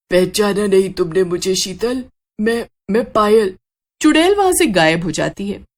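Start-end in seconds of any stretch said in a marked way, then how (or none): 0.1-3.6 an otherworldly witch, grave and ominous; ghostly witch warning. Acted. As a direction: speak as a ghost revealing a dark secret. Witch reveals she is Payal. (रहस्यमयी चुड़ैल की गंभीर चेतावनी)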